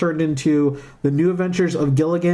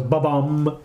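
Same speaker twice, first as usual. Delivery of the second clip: Netflix sound. Retold or imitated. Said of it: "it goes".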